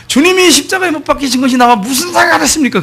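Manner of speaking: imitated loud, high-pitched outcry; loud shouting. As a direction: shout it out as a defiant challenge. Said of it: "이 친구가 큰 소리로".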